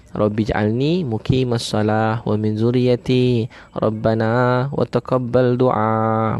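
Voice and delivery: slow, measured chanting of the Arabic prayer; slow prayer recitation. Acted. Preacher recites the prayer to the congregation, slow and reverent.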